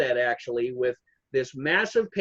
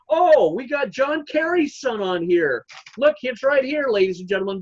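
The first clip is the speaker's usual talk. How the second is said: imitating Trump at a rally; 3 semitones higher than usual. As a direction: hype up the crowd like a rally speaker. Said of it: "read to the American people ... and say".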